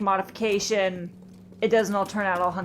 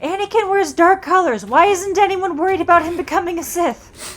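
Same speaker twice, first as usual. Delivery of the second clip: higher and louder, hammed-up disbelief; exasperated fan questions; 10 semitones higher, 9 dB louder than usual. Cohost mocking the Jedi for ignoring Anakin, higher and louder exasperated. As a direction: play up the baffled outrage at everyone ignoring Anakin. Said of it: "It's like".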